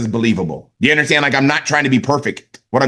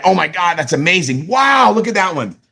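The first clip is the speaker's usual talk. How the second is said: amazed; 3 semitones higher than usual. Shown as a demonstration. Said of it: "like you've never seen it before".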